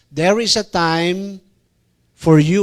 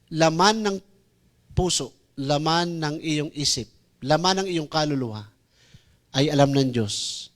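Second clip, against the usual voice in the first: soft preaching; 4 semitones lower, 4 dB quieter than usual. Acted. Softened preaching.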